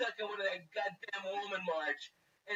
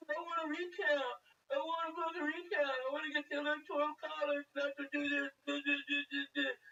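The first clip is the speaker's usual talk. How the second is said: mock whiny crying; 4 semitones higher than usual. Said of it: "Democrat pussies are all fucking crying".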